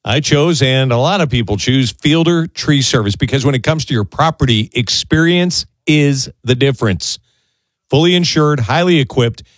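upbeat radio commercial delivery; lively, projected radio spot; ad read. Acted. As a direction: pitch the sponsor with punchy emphasis. Recorded or read sponsor ad.

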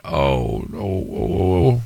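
mock horrified realization; dismayed groan. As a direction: sink into dismay. Realizing he's the parent.

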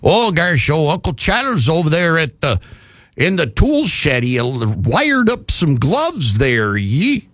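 put-on lightly done Yankee accent; a rough try at a Yankee accent. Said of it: "Yankee accent".

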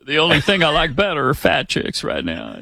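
joking ex-president impression; Bill Clinton. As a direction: play the ex-president for laughs. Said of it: "Clinton was so impressed with him".

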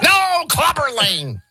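high, drawn-out protest; mock exasperated correction. Host re-enacts being corrected on the name, mock exasperated. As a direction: stretch it out in a high mock wail.

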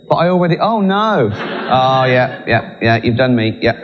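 high, moaning snake voice; whiny high snake. Retold or imitated. Snake grumbling about its punishment, high and whiny. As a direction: whine like a snake that got done over. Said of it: "Stand there going".

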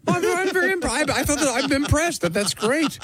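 high-pitched, stumbling fake admiration; mock impressed. Host reacts to T-shirt sales, mock-impressed. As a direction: gush badly in a squeaky high voice.

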